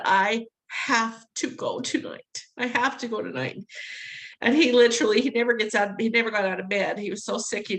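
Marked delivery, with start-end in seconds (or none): 0.0-2.4 slow firm insistence. Retold or imitated. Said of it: "I finally said".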